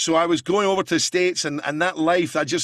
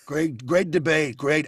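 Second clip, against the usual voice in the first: Trump impression. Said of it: "And then you've got the Donald".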